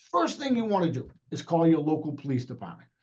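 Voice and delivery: slow down for the listeners. Shown as a demonstration. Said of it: "I will talk a little, uh, a little slower".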